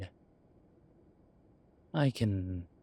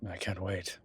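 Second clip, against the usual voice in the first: eager soft whisper; 5 dB quieter than usual. Acted. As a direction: breathe it out as a whisper. Anticipating Friday night fun.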